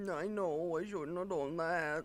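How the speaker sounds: pitiful, hangdog, very sad voice. Imitating someone caught in a lie who gives in: imitating a really sad voice. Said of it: "he gets the, like, really, really sad voice".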